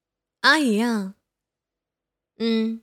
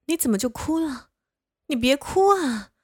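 flustered pleading; 4 semitones higher than usual. Acted. Flustered caretaker begging her crying friend to stop. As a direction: panic as he starts crying.

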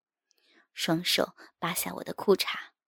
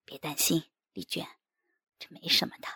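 softly reassuring husband; gentle; 5 dB quieter than usual. A narrator's reading. Husband comforting his worried wife, gently. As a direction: soothe with a lowered, gentle voice. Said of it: "我温柔地说".

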